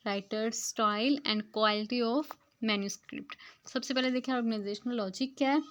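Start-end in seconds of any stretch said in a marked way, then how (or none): 0.1-3.3 slow, word-by-word reading of the English text; slow textbook reading. Shown as a demonstration. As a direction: read each word out carefully to the class. Reads English passage aloud slowly. (धीमी गति से पाठ पढ़ना)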